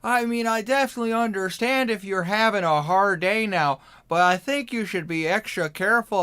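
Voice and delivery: loud, high, hammed-up Midwestern accent. Player checks if a staring friend is doing okay, hammed-up Midwestern accent. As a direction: lay on a thick, singsong Midwestern accent. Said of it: "it's a Midwestern accent".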